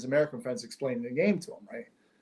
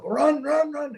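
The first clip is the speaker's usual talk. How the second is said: excited cheering; 13 semitones higher, 4 dB louder, much slower than usual. Retold or imitated. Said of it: "He gets up".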